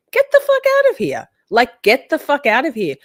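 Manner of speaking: very high, incredulous "get the fuck out of here"; stunned outrage, voice shooting up high; outraged. Real, not acted. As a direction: shriek it in disbelief. Outraged at the comment.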